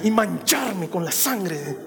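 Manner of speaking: hammed-up fire-and-brimstone prophet; mock wrath. Preacher confesses his prophet's heart to God, mock wrathful. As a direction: play at gleeful condemnation for laughs.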